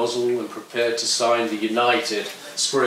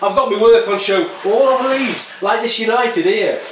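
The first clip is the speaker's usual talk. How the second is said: louder, higher aggressive yob; defiant skinhead; 5 semitones higher, 4 dB louder than usual. Acted. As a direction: lecture the poet with contempt. Skinhead rants about class war.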